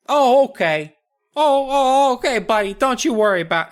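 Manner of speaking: very high gnome voice, soothing buddy; tiny gnome calming him down, high pitched; squeaky gnome placating. Acted. Gnomes calming the angry boy, very high voice.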